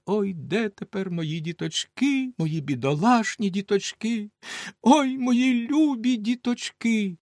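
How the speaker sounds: slow, high lament rising on ой; wailing mother. Acted. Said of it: "ридала, голосила і все казала". (повільне голосіння матері)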